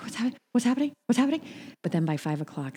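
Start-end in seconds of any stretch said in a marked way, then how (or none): 0.0-1.4 high, rising, disbelieving questions; mock bewilderment. Newly fired worker reeling at the news, mock bewildered. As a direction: playact being thrown, repeating yourself in a higher voice. Acted reaction to being fired.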